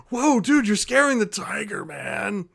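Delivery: a spooked hippie protecting his pet; stoner dude. Acted.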